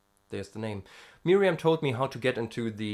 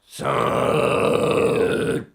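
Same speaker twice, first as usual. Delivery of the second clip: rough unvoiced growl, very slow; airy distorted metal rasp; false cord growl; 7 semitones higher, 10 dB louder, much slower than usual. Shown as a demonstration. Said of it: "there was a lot of voice in there".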